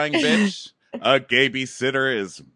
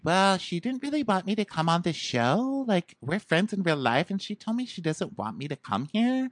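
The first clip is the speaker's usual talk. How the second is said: raised-pitch imitation of a hurt friend; lightly acted whine, higher voice; mock complaint; 8 semitones higher than usual. Retelling Kayla's complaint in character.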